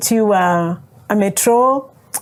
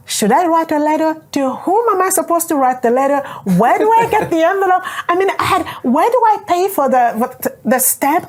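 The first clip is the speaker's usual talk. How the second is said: flustered questioning; 6 semitones higher, faster than usual. Retold or imitated. Retold panicked questions to herself.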